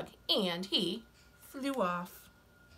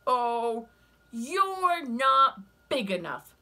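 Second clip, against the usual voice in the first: loud, high, slow and sneering; scornful ladybug voice; 5 semitones higher, 8 dB louder, much slower than usual. Acted. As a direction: dismiss them from up high.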